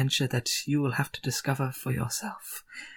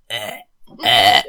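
mock retching; 6 semitones lower, 5 dB louder than usual. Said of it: "pretending to be sick".

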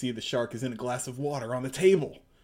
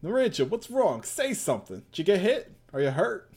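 worried calling; 5 semitones higher, 3 dB louder than usual. Acted. Character worried for friend.

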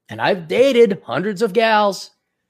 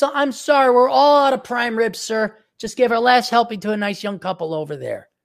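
waiter voice; 6 semitones higher than usual. Pretend. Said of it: "this is what's".

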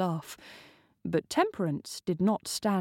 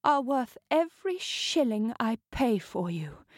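purring countess; 4 semitones higher than usual. Acted. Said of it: "the Countess purred".

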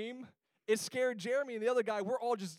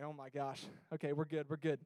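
relieved; 5 semitones lower, 6 dB quieter than usual. Retold or imitated. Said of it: "Whew, sigh of relief".

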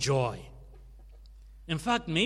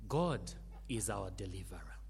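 whisper; 7 semitones lower, 7 dB quieter than usual. Acted. Sermon point, hushed.

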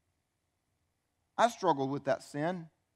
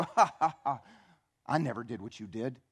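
gloating laugh; 3 semitones lower than usual. Acted. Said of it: "we think we have a gloating enemy".

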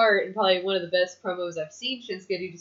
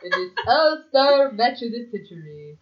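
announcer voice; 2 semitones higher, 6 dB louder than usual. Pretend. Announcer hype for wrestling match.

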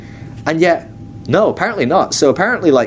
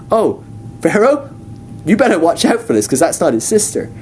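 God warning; 2 semitones higher than usual. Retold or imitated. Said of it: "he just goes".

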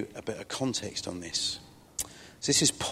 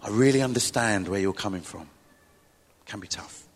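forced sympathetic; 5 semitones lower than usual. Retold or imitated. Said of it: "I put on the happy face and go".

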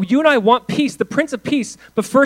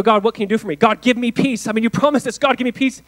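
a whiny, higher "God, give me peace"; mock pleading prayer; 5 semitones higher, 4 dB louder than usual. Preacher mimicking needy believers praying, mock whiny plea. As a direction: beg like a demanding child.

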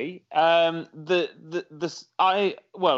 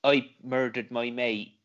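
West Country accent; 5 semitones lower than usual. Shown as a demonstration. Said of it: "in a West Country accent".

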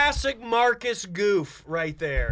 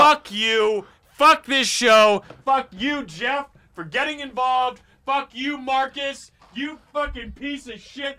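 angry rant. Acted. Storming off the show.

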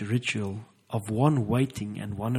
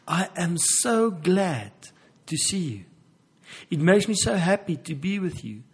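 higher and louder, delighted and eager; excited lover; 4 semitones higher, 4 dB louder than usual. Retold or imitated. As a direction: gush like you've just found the one. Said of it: "recreated the feeling of".

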